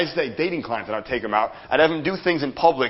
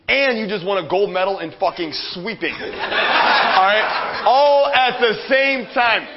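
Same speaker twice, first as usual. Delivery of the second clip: laughing hype; 7 semitones higher, slower than usual. Real, not acted. Hyping crowd about winning everything.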